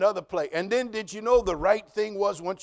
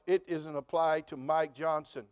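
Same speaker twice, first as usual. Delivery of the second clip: smug excuse; 2 semitones lower, 3 dB quieter, slower than usual. Retold or imitated. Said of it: "I told myself".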